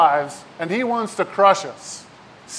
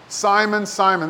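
Jesus calling. Retold or imitated. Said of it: "this is Jesus talking to Peter".

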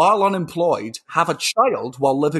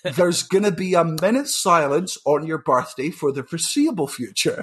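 mock solemn parents; 2 semitones higher than usual. Parents announcing in a story.

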